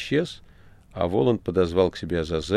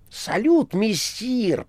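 cheerful shout; much slower than usual. A narrator's reading. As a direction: hail the master merrily. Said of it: "прокричала неугомонная парочка". (весёлый возглас)

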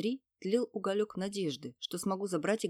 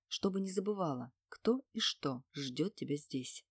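low purr; 2 semitones lower than usual. Acted. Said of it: "мурлыкнул он, добавляя голосу низких волнующих частот".

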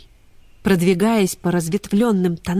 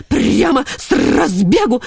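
indignant; 5 semitones higher, 5 dB louder, slower than usual. Acted. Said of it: "возмущался полкан".

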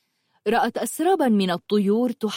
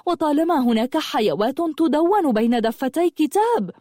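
exclaiming; 4 semitones higher than usual. Acted. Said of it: "صاحت حبيبة".

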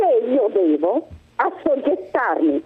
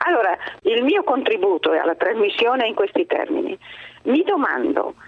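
phone-line voice; over the phone; 6 semitones lower than usual. Real, not acted. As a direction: caller heard through a telephone. Caller on the line. (al telefono)

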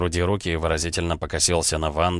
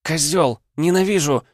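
much higher, louder angry shout; a dumped girl screaming in rage; furious scream; 10 semitones higher, 5 dB louder than usual. A narrator's reading. Girl raging after breakup.

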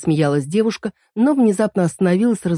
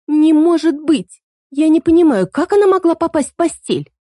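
put-on girl refusing to believe, higher and louder; shocked disbelief; 11 semitones higher, 6 dB louder than usual. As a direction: gasp it out in shock. Girl shocked, voiced high and loud.

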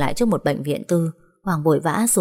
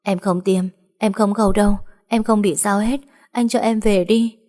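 frightened pleading; 3 semitones higher than usual. Acted. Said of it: "Nhiên cứ ú ớ".

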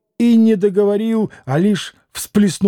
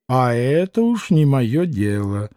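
with a smirk; 5 semitones lower than usual. A narrator's reading. Doctor dismissing the poor family, smirking. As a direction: shrug it off with a little grin. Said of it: "усмехнулся доктор".

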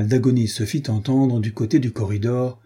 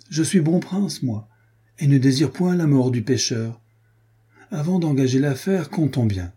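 a smug swaggering captain, pitched higher; mocking bandit captain; 3 semitones higher than usual. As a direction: toy with them, sneering and sure of the win. Gaspard's mocking threat. (capitaine fanfaron, moqueur et menaçant)

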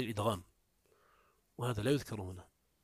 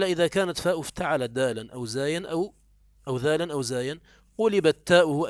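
raised, louder reading of the quoted text; reading the text aloud; 3 semitones higher, 8 dB louder than usual. Shown as a demonstration. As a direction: read the quoted rule out, louder. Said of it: "قال". (قراءة المتن بصوت أعلى)

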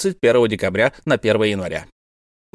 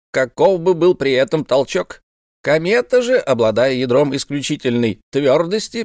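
a lightly voiced eccentric astronomer, lecturing a bit higher; proud old professor; 5 semitones higher than usual. Professor lectures the officers, lightly voiced and pleased with himself. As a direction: hold forth like a self-important old scholar.

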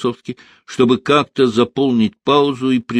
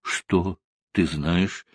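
slow, guarded question; husband warily asks his wife what she knows; wary; 4 semitones lower, 5 dB quieter, much slower than usual. A narrator's reading. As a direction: ask slowly, on guard. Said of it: "насторожённо спросил он".

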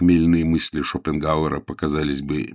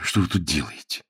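mildly unwelcoming question, softer; unfriendly; 5 dB quieter than usual. Acted. Frederick finds Jane beside him, unfriendly. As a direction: ask curtly, with no welcome. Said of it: "неприветливо осведомился он".

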